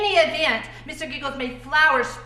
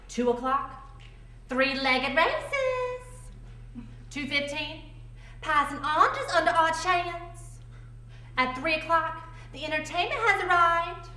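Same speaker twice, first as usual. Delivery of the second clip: mock schedule announcement; 3 semitones higher, 3 dB quieter than usual. Narrator reciting mother's party plan with military precision, mock announcing. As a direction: announce each item like a timetable.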